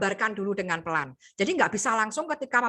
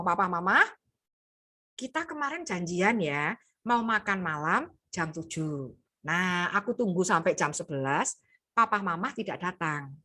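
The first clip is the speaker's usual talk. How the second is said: low, soft, even voice; low pitch do rendah; 4 semitones lower, 3 dB quieter than usual. Shown as a demonstration. Teacher shows child speaking to parents in low tone. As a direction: keep it low and calm. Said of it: "Lihat, do rendah".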